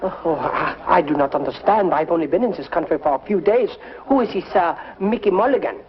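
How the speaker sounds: halting fake French accent; bad French accent. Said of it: "a very bad French accent".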